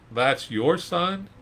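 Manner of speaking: high, slow disbelieving question; incredulous folks. Retold or imitated. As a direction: gawk at the old father. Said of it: "can you hear these folks".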